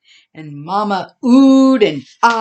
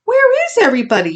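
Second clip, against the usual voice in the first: puzzled; 9 semitones higher than usual. A narrator's reading. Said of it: "she asked".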